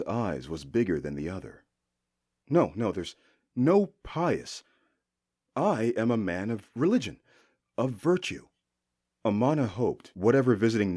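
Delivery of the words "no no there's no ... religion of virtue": a lightly voiced priest soothing the guard; humble priest. Amana posing as priest, lightly humble. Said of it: "taking on the persona of a humble priest".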